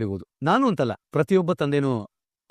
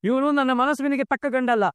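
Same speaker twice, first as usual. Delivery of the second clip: furious outburst; 8 semitones higher than usual. Acted. Father furious at groom's greed.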